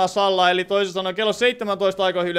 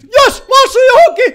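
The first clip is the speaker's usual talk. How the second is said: very high, very loud yell of triumph; elated shout; 14 dB louder than usual. Real, not acted. Player who has hit something, elated shout. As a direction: scream the good news with a laugh.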